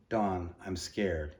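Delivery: slow, frail and weak. Acted. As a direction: speak it like a dying boy, barely. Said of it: "He spoke in a frail voice".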